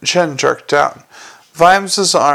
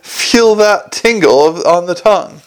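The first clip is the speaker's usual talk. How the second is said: raised, relishing voice; talking while chewing; 3 semitones higher, 5 dB louder than usual. A narrator's reading. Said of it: "as he masticated".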